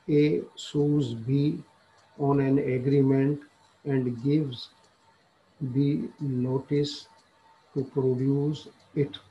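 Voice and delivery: reading the law text aloud very slowly, word by word; slow statute reading. Acted. Lecturer reading the statute to law students, slow dictation.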